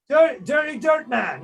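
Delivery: high, loud, slow sneer; mocking drunk king. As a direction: taunt him, stretching the words. King mocks stone creature.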